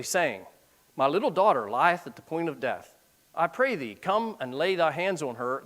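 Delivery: reading the verse aloud, measured; scripture reading. Acted. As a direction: read it like scripture from the pulpit.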